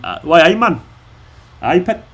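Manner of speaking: put-on light Geordie accent; a quick Newcastle "why aye man". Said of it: "Do a Geordie accent".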